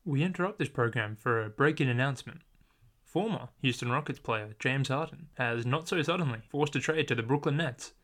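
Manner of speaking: formal bulletin announcer read; old radio announcer. Pretend. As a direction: announce it like a breaking news bulletin. Mock news break-in bulletin.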